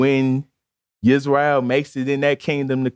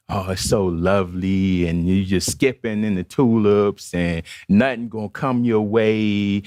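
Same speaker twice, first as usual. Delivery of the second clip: lightly mocking preacher's lilt, slightly lowered; Joel Osteen; 4 semitones lower than usual. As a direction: gently parody a feel-good preacher. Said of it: "That's how he talks".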